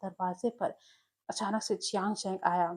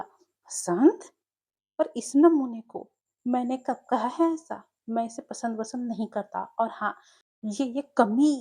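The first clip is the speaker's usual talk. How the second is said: loud, indignant bursts of anger; angry outburst; 2 semitones higher, 6 dB louder than usual. Acted. Wing angrily refuses the match his family proposes, loud outburst. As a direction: snap back in outrage at the suggestion. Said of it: "गुस्से से उछल पड़ा और बोला".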